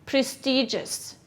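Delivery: slow clear prestigious; teacher modelling prestigious; model word. Shown as a demonstration. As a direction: say prestigious. slowly for echo.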